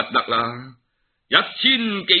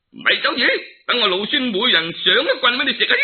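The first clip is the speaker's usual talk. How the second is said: fierce battle cry; 9 semitones higher, faster than usual. Acted. Monkey King's battle threat.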